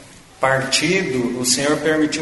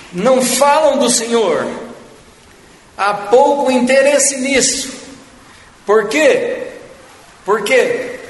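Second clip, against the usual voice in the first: raised, high-pitched pulpit delivery; emphatic preaching; 8 semitones higher, 3 dB louder than usual. Acted. Preacher rebuking those who preach only material things, emphatic preaching. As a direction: preach it with urgent, pointed emphasis.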